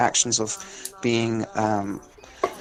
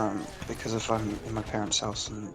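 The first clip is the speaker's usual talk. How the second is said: whispering on the phone; 2 semitones lower, 9 dB quieter than usual. Real, not acted. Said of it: "why are you whispering?".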